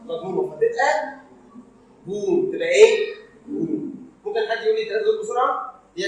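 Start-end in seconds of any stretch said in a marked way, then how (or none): 0.0-2.5 بوم with lips rounded, a closed long o. Shown as a demonstration. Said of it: "او طويله مضمومه". (بوم بشفايف مضمومه)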